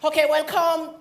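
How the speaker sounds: high, ceremonial priest in English; prêtre Johnson. Acted. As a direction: welcome them like an officiating priest. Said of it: "Il y avait le prêtre Johnson".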